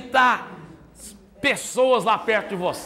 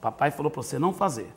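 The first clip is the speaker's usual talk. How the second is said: calm firm parent; 5 semitones lower, 4 dB quieter, faster than usual. Shown as a demonstration. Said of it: "fala desse jeito".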